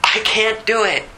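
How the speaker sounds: high-pitched, urgent pleading with God; impassioned cry of helpless need; crying out desperately. Acted. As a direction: beg the Lord to step in. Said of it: "I am crying out in desperate need for Jesus".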